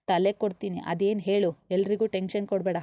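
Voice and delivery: a mother's sharp telling-off; scolding. Acted. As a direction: scold the girl impatiently. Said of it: "Shravani ಗದರಿದ್ರು".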